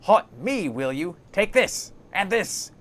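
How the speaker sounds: high, loud outburst in bursts; angry attack. Acted. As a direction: punch out each phrase as if landing blows. Marta pounds corpse while shouting.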